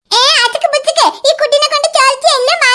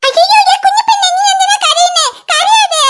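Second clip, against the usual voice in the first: alarmed coaxing; 6 semitones higher than usual. Acted. Sister alarmed at crying child.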